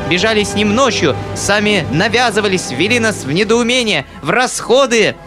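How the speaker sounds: high, breathless furious tirade; choking with rage. A narrator's reading. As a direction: spit it out choking with anger. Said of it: "задыхаясь от злости". (задыхаясь от злости, высоким голосом)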